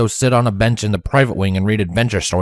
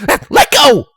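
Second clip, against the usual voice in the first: loud, high startled snap; snapping; 7 dB louder than usual. Acted. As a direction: snap it out, hurt. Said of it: "Rainbow suddenly snapped".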